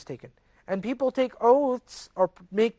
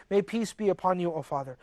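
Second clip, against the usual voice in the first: softer and lower, a calm blessing; peacefully; 3 semitones lower, 5 dB quieter than usual. Retold or imitated. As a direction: bless the father quietly and kindly. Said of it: "very peacefully".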